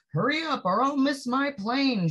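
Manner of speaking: a rushed traveller begging the cabbie to hurry; urgent passenger. Acted. Woman in the taxi urging the driver, urgent and high. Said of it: "she told the taxi driver".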